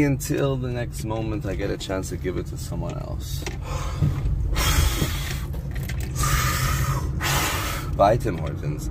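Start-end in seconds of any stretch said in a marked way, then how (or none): 3.5-7.9 long, drawn-out exhale; long sigh. Real, not acted. Giver turned down by the worker, long sigh. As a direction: let all the air out slowly. After painting was turned down.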